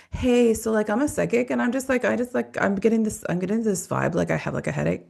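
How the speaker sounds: lightly mocked vague psychic voice; mocking fake psychic. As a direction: parody a phony psychic fishing for clues. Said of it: "I would never speak that way".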